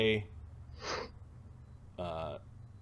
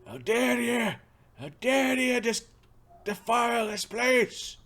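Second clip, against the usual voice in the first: high, loud outraged shout; shaking with anger; 12 semitones higher, 7 dB louder than usual. Acted. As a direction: bellow it in holy fury. NPC outraged at desecration.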